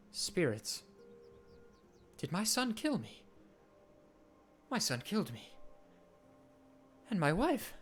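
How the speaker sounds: lightly voiced dead king, pleading softly; mournful ghost king.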